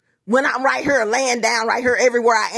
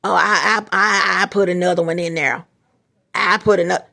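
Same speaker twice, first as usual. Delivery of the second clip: warlock voice; 4 semitones lower than usual. Retold or imitated. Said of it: "you hear him up there, this warlock".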